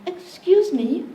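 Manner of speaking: put-on light posh British accent, slow and high; a Brit asking politely in a mild British accent; a hint of a British accent; little British accent. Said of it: "I'll try and do a little accent".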